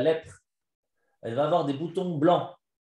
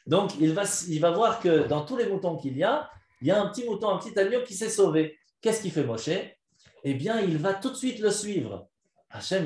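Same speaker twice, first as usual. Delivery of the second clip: put-on lively story narration to children; 8 semitones higher than usual. A narrator's reading.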